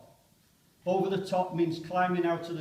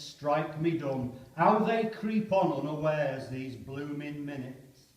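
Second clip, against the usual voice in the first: poem reading. Acted. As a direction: read it like a frightened soldier. Poem recited aloud.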